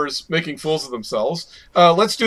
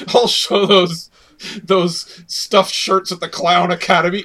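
villain voice. Acted. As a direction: sneer it like a vengeful clown. Repeated in villain voice.

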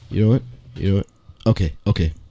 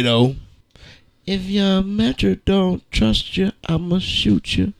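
dramatic reading; 3 semitones lower than usual. Shown as a demonstration. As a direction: read rap lyrics like a poem on stage. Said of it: "we are gonna have a dramatic reading".

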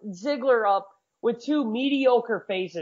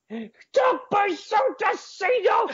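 1 laughing mock shout; 9 semitones higher, slower than usual.

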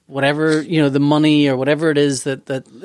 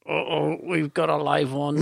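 quiet aside; 3 semitones lower, 5 dB quieter, slower than usual. Retold or imitated. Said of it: "that person on the other end is gonna go".

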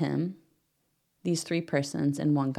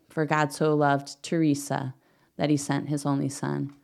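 slow scripture reading. Shown as a demonstration. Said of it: "replace your name where Scripture writes".

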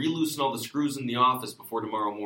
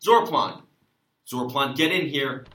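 calling out; 2 semitones higher, 6 dB louder than usual. Acted. Sheriff calling out loudly.

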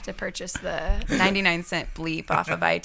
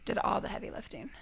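whispered secret aside; 11 dB quieter, faster than usual. Real, not acted. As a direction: breathe it like a secret.

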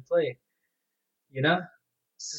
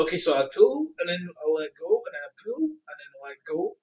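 higher, step-by-step pretend reasoning; puzzled novice; 4 semitones higher than usual. Gamer trying real fishing by game rules, puzzled. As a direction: talk yourself through it, each step lifting.

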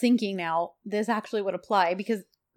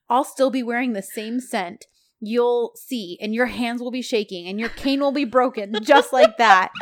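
retold sass; 3 semitones higher, 3 dB louder than usual. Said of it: "how sassy she's being here".

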